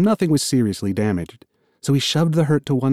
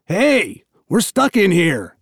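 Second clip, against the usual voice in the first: calling out; 6 semitones higher, slower than usual. Acted. Calling through door for help.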